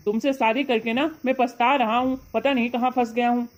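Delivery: झुंझलाया पति, हल्की फटकार; खीझकर शिकायतें गिनाओ; पत्नी को डांटना. Acted. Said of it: "तुम मेरे ऊपर चिल्लाना मत". (पति की खीझ भरी डांट)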